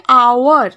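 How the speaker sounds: "আওয়ার" said loudly with no H sound; silent H. Shown as a demonstration. Teacher showing how the word is pronounced, "আওয়ার" loud with silent H. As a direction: start "আওয়ার" straight on the vowel, H silent. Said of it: "উচ্চারণটা কি হচ্ছে".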